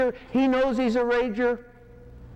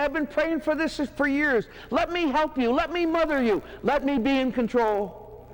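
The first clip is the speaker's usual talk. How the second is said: higher-pitched, gushing wife voice; raised pitch, overeager to help; eager smothering wife; 6 semitones higher than usual. Acted. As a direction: imitate a wife pushing to mother him. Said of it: "the wife's gonna say".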